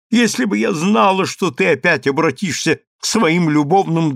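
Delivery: a disgusted sultana scolding the vizier; contemptuous. Acted. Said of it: "сказала султанша презрительным тоном".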